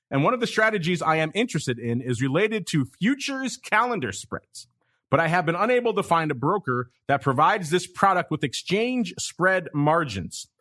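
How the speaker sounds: lightly performed letter reading; listener letter read-out. Retold or imitated. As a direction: read the fan's message out with showy emphasis. Reads out listener's message.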